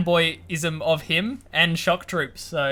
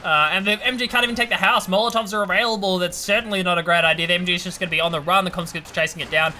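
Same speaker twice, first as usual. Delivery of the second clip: excited play-by-play; 3 semitones higher than usual. Real, not acted. Live play-by-play of a fight.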